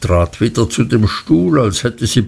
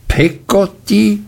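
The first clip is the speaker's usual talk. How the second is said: "Peggotty?" thrown back much higher in outrage; "Peggotty?" repeated by the aunt with an indignant high rise; 9 semitones higher than usual. A narrator's reading. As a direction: echo "Peggotty?" as if the name were scandalous. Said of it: "wiederholte Miss Betsy entrüstet".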